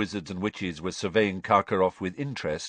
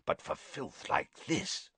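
gruff Auror speaking softly in disdain; 4 semitones higher, 8 dB quieter than usual. A narrator's reading. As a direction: say it softly with disgust. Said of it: "Moody said softly".

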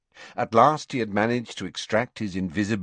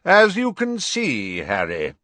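louder and higher, cutting over the noise; loudly; 7 semitones higher, 5 dB louder than usual. A narrator's reading. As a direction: raise the voice over the croaking. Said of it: "said Dumbledore loudly".

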